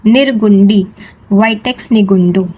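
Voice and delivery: each syllable of निर्गुंडी, vitex nigundo drawn out very slowly for the class to echo; slow repeat-after-me. Shown as a demonstration. Teacher leading students to repeat the plant name, slow and clear. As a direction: spell it out slowly so they can say it with you. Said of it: "कहो मेरे साथ एक बार".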